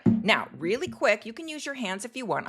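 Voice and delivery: talking while holding breath. Real, not acted. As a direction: squeeze words out on held breath. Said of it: "I'm holding my breath".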